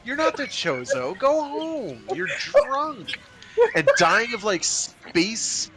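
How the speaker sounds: mocking high voice. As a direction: sneer them off, laughing. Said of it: "They're like".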